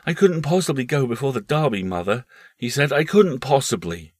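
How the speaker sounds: put-on a boy refusing to leave; boy Paul.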